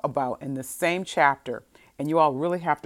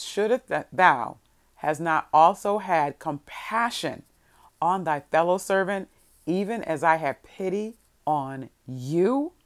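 solemn scripture reading. A narrator's reading. King questioning the unforgiving servant, solemn and emphatic. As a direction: read it deliberately, rising into the final question. Reads king's question from verse.

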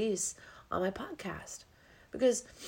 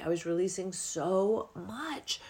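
whispering; slower than usual. Real, not acted. Unvoiced whispered.

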